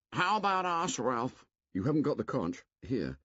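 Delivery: put-on high, worried boy's voice; anxious Piggy. Piggy asks Ralph what becomes of them, anxious. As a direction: plead not to be left behind.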